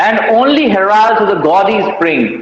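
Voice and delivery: very slow, weight on only; slow verse recital. Shown as a demonstration. Teacher reciting the sonnet line to students, very slowly. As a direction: read the line out slowly, word by word.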